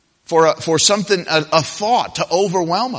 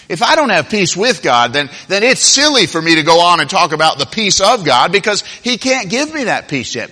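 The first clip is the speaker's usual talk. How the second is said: raised, insistent sermon voice; emphatic preaching; 4 semitones higher, 5 dB louder than usual. Acted. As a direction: drive the point home from the pulpit. Preaches the point forcefully.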